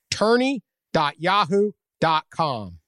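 slow, clear repeat of the web address; slow emphatic URL. Acted. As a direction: spell out the site slowly.

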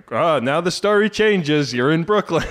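put-on a touch of a gruff old New York guy; salty old New Yorker. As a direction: play the suspicious old New Yorker, lightly. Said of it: "salty old New York guy".

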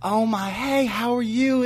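high, lilting greeting in grandma's voice; imitating grandmother's tone. Grandson imitating grandma overheard on dog walk, imitated high greeting. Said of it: "it was the same exact tone of".

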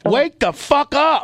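slow, roaring high yell; wrestling promo. Acted. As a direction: bellow it like a wrestler calling out a rival. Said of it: "This is how you talk to your mom".

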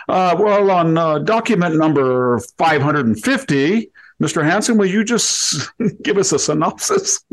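lampoon a British don lecturing his class; British aristocrat professor. Retold or imitated. Old British lecturer quizzing his student, mock British accent. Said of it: "the British aristocrat".

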